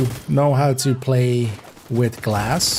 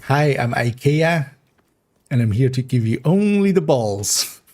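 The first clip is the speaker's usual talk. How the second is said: put-on Scandinavian accent. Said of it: "kinda Scandinavian accent".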